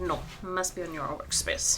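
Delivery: cat voiced with a French accent. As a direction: play the cat as stubbornly French. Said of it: "I don't know why you're French now".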